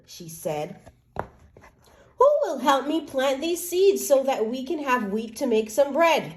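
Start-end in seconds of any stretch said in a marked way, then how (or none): 2.2-6.3 a hopeful hen, pitched a little higher; lightly voiced hen calling for helpers; little red hen asking. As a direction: ask brightly, hoping someone helps. Hen asks the animals.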